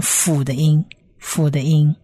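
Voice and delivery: "辅" as the f sound; pronunciation demo. Shown as a demonstration. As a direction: model "辅" for learners, then repeat it. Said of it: "发音上就变成发成辅的音".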